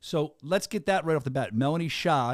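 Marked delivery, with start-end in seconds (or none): 1.5-2.3 SHAH with an open "ah" vowel; correct pronunciation. Shown as a demonstration. Host modelling guest's name for viewers, open SHAH. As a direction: land "Shah" on the "ah" of "spa". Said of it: "you gotta say her name right".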